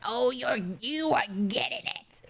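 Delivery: teasing whisper. Real, not acted. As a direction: breathe it out like a secret.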